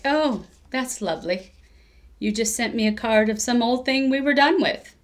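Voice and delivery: hammed-up British accent, ending on a laugh; mock British accent. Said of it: "my attempt at a British accent was terrible".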